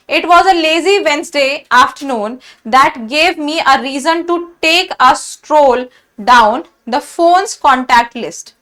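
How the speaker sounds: reads the test sentence slowly, word by word. Shown as a demonstration. Teacher reading the exam sentence to students, slow and deliberate. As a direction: dictate it slowly like a question paper.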